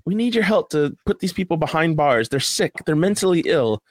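high, earnest public-service voice; mock official appeal. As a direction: put on the pleading voice of a government ad. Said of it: "they're like".

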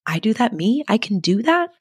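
lightly voiced child's astonishment; amazed little girl. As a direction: lift the pitch in wondering disbelief. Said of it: "she would be like".

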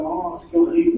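high mock-appalled exclamation; appalled reaction to an accent. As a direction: imitate someone dismayed by an accent. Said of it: "têm um sotaque um pouquinho carregado".

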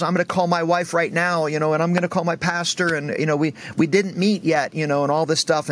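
high-pitched tearful babble, lightly acted; imitating crying. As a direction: imitate a man rambling through tears. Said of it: "He's crying".

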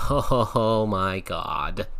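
slow, stammered mock shock; stunned. Recalling his shock at the partner's size, slow stunned stammer. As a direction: drag out each oh like you're stunned. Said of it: "all I could muster out was a".

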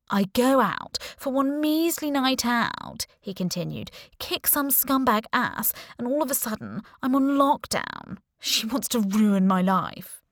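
sulky kid complaining, mocking; whiny brat voice. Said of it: "He put on a whiny voice like I was a ten-year-old brat".

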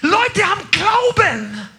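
loud, high, driving preacher voice; preaching at full force. Acted. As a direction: fire up the congregation. Fiery sermon peak.

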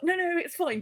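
high-pitched, quick reassurance; mock reassurance. Tanks to a scared guild before a big fight, reassuring.

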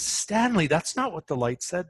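name pitched well up, mildly admonishing; retold correction. Friend correcting Stanley's old mantra, mildly admonishing retelling. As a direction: imitate a friend gently pulling someone up.

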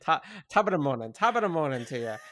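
quick, hammed-up Irish brogue; mock Irish accent. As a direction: rattle off the Irish greeting. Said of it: "your perfect, uh, uh, Irish accent".

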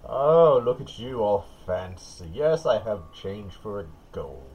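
lightly voiced old lady, loud drawn-out "Oh"; slow down as a lightly played old woman; old lady innkeeper. Old lady being paid in gold, lightly voiced innkeeper. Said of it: "the old lady behind the counter says".

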